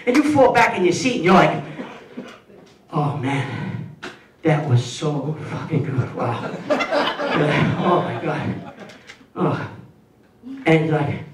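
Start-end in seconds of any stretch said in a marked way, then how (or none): 3.0-9.7 satisfied sigh. Acted. Satisfied after meal.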